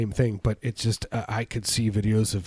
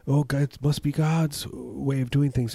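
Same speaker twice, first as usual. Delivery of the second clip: mock pious believer; 5 semitones higher than usual.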